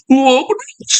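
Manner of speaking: high-pitched mock wail; mock crying. Speaker mimics his critic Reda crying, mock wail. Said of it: "Reda nangis".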